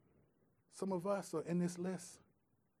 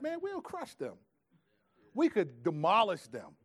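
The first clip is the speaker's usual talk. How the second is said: hyped-up fan boast; 2 semitones higher than usual. Retold or imitated. Preacher imitates soccer fans bragging, hyped and rowdy. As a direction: pitch leaps way up on "Man, we'll crush them".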